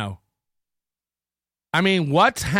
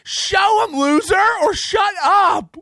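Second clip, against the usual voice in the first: higher, louder angry yell; furious demand, pitched up; angry shout; 9 semitones higher, 3 dB louder, slower than usual. Real, not acted. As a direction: yell it at him, fed up. Angry rant at Kevin.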